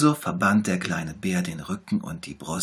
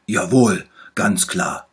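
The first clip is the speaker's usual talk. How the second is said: lightly voiced little bear, louder; 10 dB louder, slower than usual. A narrator's reading. Little bear promises to heal the tiger, louder. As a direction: promise it brightly like a small doctor. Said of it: "sagte der kleine Bär".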